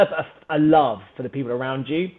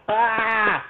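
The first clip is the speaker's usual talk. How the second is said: higher mock cry of pain; imitated pained cry; 5 semitones higher than usual. Opponent caught in a triangle, imitated cry. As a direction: act out a choked opponent's yelp.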